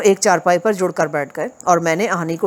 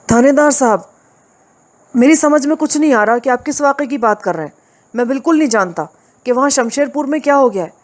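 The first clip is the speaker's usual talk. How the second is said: higher, earnest protest to the police officer; pleading innocence; 6 semitones higher than usual. Acted. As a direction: plead your case, anxious. (थानेदार से बेगुनाही की घबराई हुई गुहार)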